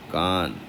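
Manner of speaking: कान said ending in n; nasal n ending. Shown as a demonstration. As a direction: say कान with the bindi as n. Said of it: "तो ये क्या हो जाएगा". (बिंदी को न बोलना)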